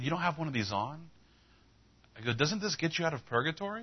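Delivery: high, rising questions, puzzled; mock disbelief. Preacher querying the clerk about the scapula, disbelieving. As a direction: question it as if it makes no sense.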